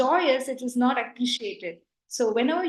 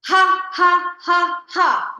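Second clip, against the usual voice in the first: loud, higher ha ha with the mouth wide; open-mouthed laughter; 6 semitones higher, 8 dB louder, much slower than usual. Shown as a demonstration. Teacher demonstrating a wide-mouthed laugh, loud and high. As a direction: throw the laugh out. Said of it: "Open your mouth".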